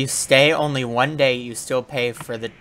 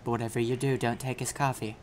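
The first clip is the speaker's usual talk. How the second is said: mock documentary narration; 5 dB quieter than usual.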